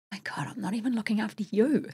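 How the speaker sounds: hushed inner thought; whispered realisation. Retold or imitated. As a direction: breathe it out as a private thought. Retelling realisation to herself.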